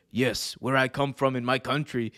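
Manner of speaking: put-on African accent, measured delivery; fake African accent. Friend retelling a wrestler's interview, in a fake African accent. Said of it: "He's putting on a fake accent".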